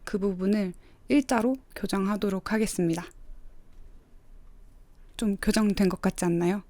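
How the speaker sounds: ordinary talk, nothing marked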